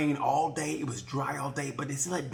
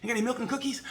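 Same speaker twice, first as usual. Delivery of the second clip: high, cheery and casual; higher, breezy kid asking for milk and cookies; carefree teen rider; 9 semitones higher, 3 dB louder, faster than usual. Retold or imitated. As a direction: brush it off like nothing happened. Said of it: "He just goes".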